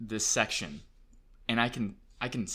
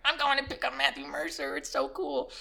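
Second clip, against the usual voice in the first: high-pitched dorky fan voice; geeking out. Retold or imitated. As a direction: squeal it like an absolute dork. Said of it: "geeking out, such an absolute dork".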